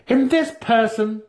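high, pointed question; Santa Fe's voice. A narrator's reading. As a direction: lift the voice into the sly matron.

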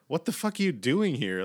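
high mock-bewildered question; tripping out. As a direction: imitate a man on acid confronting intruders. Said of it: "and he's tripping out".

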